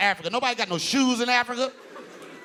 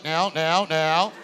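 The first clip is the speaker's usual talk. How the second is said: halting, slightly lower repeated word; Barack Obama; 5 semitones lower, much slower than usual. Acted. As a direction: lightly imitate a hesitant politician. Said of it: "He's always stuttering".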